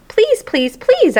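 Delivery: high, rising squeaky begging; squeaky pleading. Acted. Hamster begging the janitor to stay for dinner, squeakily. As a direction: beg like an eager hamster. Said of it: "I squeaked".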